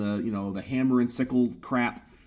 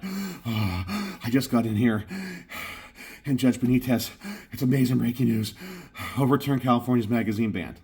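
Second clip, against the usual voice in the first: mock breathless excitement. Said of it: "It looks a little bit silly when you're like".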